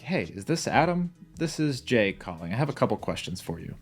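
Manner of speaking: slightly unsure opener, as if you need help; a little confused. Shown as a demonstration. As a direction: sound a touch lost, not buttoned up. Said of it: "try starting your call sounding just a little bit confused".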